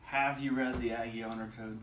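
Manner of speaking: "Have" hit at the start; stress on "Have". Shown as a demonstration. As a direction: put the weight on "Have". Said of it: "different inflection on the words".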